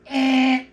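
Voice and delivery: loud choked-up sound; a sudden burst of feeling; choked-up outburst; emotional choke. Real, not acted. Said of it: "Sorry, I get emotional".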